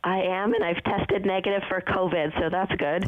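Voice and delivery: husky, hoarse voice; a touch of rasp in the throat; gravelly voice. Real, not acted. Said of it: "a little singer, uh, sound".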